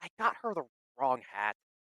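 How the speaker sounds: muttering under the breath. Voicing a character who bought the wrong hat: cursing under his breath. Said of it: "curses under his breath".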